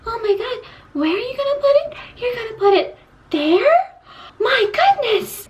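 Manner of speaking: put-on high, squeaky wide-eyed girly voice; naive girl. Mocking a naive girl's shock at a guy in bed, high squeaky voice. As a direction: play a shocked innocent girl, pitch way up. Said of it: "She's not just gonna be like".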